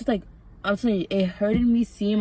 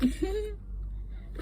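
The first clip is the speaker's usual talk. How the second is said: soft, high little laugh; quiet chuckle; 13 semitones higher, 9 dB quieter than usual. Real, not acted. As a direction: let out a small breathy giggle. Chuckles mid-aside about vape.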